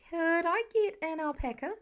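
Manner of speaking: a hint of a kid begging his dad; pleading. A narrator's reading. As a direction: coax dad sweetly for the alpaca. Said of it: "putting on his best pleading look".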